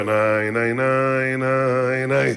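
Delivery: repeated mock nay sounds, rhythmic; head-shake noise. Kitchen staff shake their heads at the shouting, mock nay sounds. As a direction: chant nay while shaking the head. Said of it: "הראש ככה עובר".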